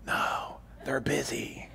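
put-on hushed little kid whisper; a child whispering into the phone; small child whispering. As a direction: whisper like a scared four-year-old. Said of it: "the whispering voice says".

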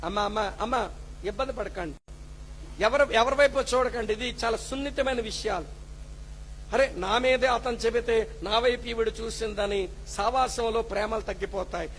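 preacher calming an uneasy congregation, softly; soothing calm. Real, not acted. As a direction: hush the room gently. Calming congregation, don't look around.

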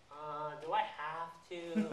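slow, drawn-out mild whine; reluctant whine. Retold or imitated. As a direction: imitate a reluctant little whine. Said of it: "kind of whine a little bit".

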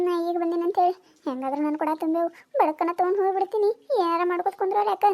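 soft, muttered grumble to herself; grumbling aside. Acted. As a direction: complain under your breath.

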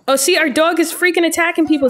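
amused laughing outburst. Real, not acted. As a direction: laugh in disbelief at the dog. Dog attacks people, she laughs.

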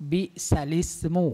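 บิซาลิสมู with the sounds joined, no glottal stop before อิส; correct Arabic reading. Shown as a demonstration. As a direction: read บิซาลิสมู as one linked word, ซา flowing into ลิส. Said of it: "ต้องอ่านว่า".

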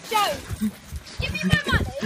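yelling across the room. Acted. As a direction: call out the demand. Demanding money again.

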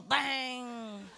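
imitated bang. Mimics ball hitting floor.

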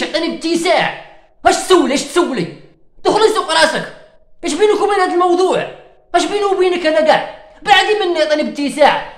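hammed-up annoyed rant; mock angry rant. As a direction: tell her to leave you alone, riled up. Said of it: "انا معصب انا دركا".

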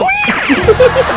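loud, very high laughing yelp; shrieking laugh at getting lost; loud laughing shout. Real, not acted. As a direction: burst out laughing loudly. Gets lost in the maze.

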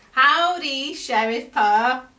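high and loud cheerful greeting. A narrator's reading. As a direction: burst out with a big hello. Jumping out to greet.

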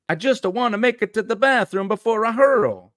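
high-pitched queasy cartoon Italian; Guido, stereotyped Italian accent. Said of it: "I'm just gonna do stereotypes".

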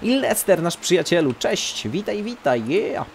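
high cheerful hello; excited greeting. Acted. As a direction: greet an old friend brightly. Greets game character Lester.

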